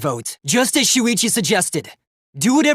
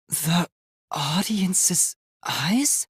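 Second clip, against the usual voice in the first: slow, breathless whisper; stunned whisper; 6 dB quieter, much slower than usual. Acted. Robot realizing the cameras are audience eyes, stunned whisper. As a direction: barely voice the dawning horror.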